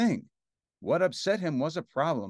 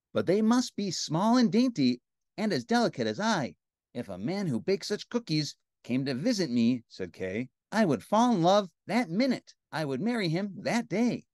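higher-pitched, delicate princess voice; dainty princess; 3 semitones higher than usual. Acted. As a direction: play a tiny, picky princess. Princess continues speaking.

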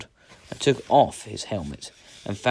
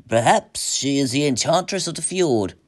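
raised, higher warning voice; ominous warning; 7 semitones higher, 5 dB louder than usual. A narrator's reading. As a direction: warn him with force. Third companion warns the hero.

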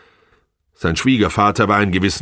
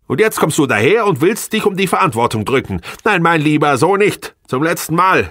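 high, loud accusing tirade; outraged; 11 semitones higher, 4 dB louder than usual. A narrator's reading. Wife threatening husband with the court, outraged. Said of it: "rief sie empört aus".

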